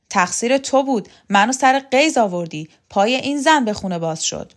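loud, high and blaming; furious accusation. Acted. Shokat gripping Vahab's collar, shouting the blame at him. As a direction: shout the blame in his face.

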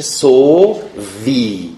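سووی said "so-vi", with short o in the first syllable; two slow syllables in سووی, "so" then "vi"; shortened vowel. Shown as a demonstration.

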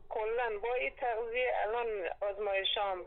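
caller heard through phone line; over a landline phone. Real, not acted. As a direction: narrow telephone sound.

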